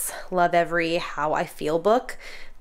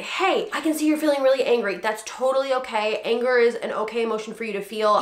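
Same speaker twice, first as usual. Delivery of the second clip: higher, gentle and patient; calm reassuring parent; 3 semitones higher than usual. Shown as a demonstration. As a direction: reassure an angry child. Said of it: "So I can say".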